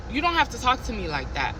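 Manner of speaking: soft, calm and low, firm but quiet; really softly. Retold or imitated. To the yelling manager, really soft and calm. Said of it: "really softly".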